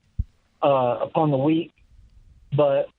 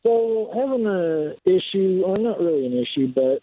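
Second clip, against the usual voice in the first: distant caller off the phone mic; speaking away from the handset; 2 semitones higher than usual. Real, not acted. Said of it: "can you talk into your phone for us?".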